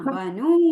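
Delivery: ബനു very slow, long final oo; long final vowel. Shown as a demonstration. Teacher confirms the pupil's reading, long final vowel. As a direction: hold the നു of ബനു. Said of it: "അതിനെ നിർത്താന് വാവ് വേണം".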